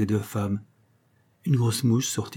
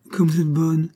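the same courtesy said again, a bit higher; repeated polite phrase; 6 semitones higher, 4 dB louder than usual. A narrator's reading. Miss Aldis repeats her welcome to Nora, mechanically polite. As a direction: repeat it like an automaton reciting manners. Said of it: "répéta Miss Aldis".

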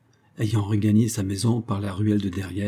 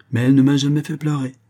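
hurried; 4 semitones higher, 5 dB louder, faster than usual. Acted. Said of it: "se hâta-t-il d'ajouter".

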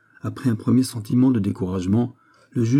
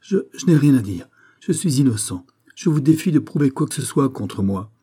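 stammering then higher, defiant denial; defiant prisoner; 5 semitones higher, 4 dB louder than usual. Acted. The prisoner defies the judge, shaken bravado. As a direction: dare him to prove it.

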